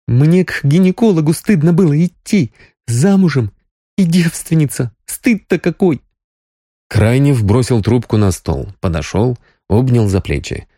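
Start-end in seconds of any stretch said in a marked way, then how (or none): 0.1-6.0 higher voice, a touch of tears; mild tearful shame. A narrator's reading. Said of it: "Соня внезапно всхлипнула".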